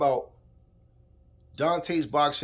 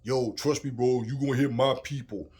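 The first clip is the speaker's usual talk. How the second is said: imitating the fighter. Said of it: "if him saying".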